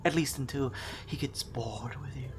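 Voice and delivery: unvoiced sinister whisper; ominous whisper. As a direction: breathe it menacingly. Ominous aside.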